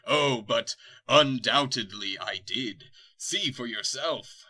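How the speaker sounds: slow, loud gloating villain. Acted. Dark lord taunts the heroes, slow and loud gloating. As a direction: savour each word like a smug tyrant.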